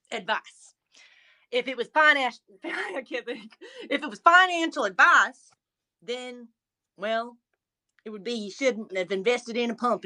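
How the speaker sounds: Puzzle Raccoon voice. Pretend. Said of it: "leave us with, uh, the Puzzle Raccoon voice".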